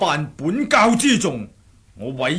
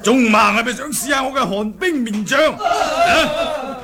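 mocking taunt; 5 semitones higher than usual. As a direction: sneer and laugh at the enemies. Taunting enemies before attacking. (带笑嘅嘲讽挑衅)

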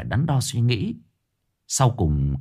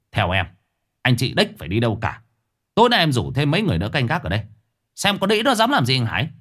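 raised voice; 3 semitones higher, faster than usual. Acted. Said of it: "cau mày lớn tiếng".

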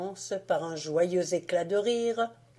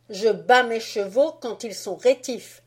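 put-on swaggering, louder boy's boast; boastful Fritz; 3 semitones higher, 5 dB louder than usual. Fritz to Marie justifying himself, boastful. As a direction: brag it like a little general. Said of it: "de son air le plus fanfaron".

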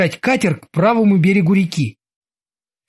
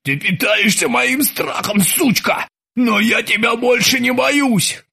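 slow, chanted incantation; like a spell; 6 semitones higher than usual. A narrator's reading. Krueger chants at the terminator like a spell. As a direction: recite it like a charm against fear. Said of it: "словно произнося заклинание".

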